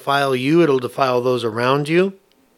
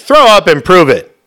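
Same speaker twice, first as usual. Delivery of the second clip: mock demand; 2 semitones higher, 8 dB louder than usual. Church members demand proof of sickness.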